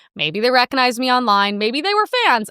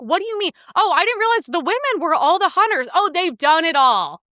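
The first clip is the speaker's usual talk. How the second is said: sarcastic; 5 semitones higher than usual. Retold or imitated. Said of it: "I'm like".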